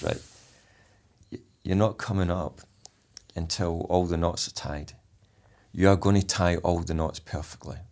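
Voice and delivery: soft steady instruction; calm certainty close up; quiet firm reassurance. Retold or imitated. Instructor close to trainee before capsize, soft and firm. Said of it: "you've calmed it back down there".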